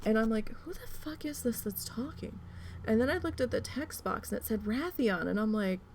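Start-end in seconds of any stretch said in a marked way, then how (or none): 0.5-2.4 high, softer mock-incredulous question; baffled disbelief. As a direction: retell a puzzled double take, pitched up. Retold baffled reaction to strange voice.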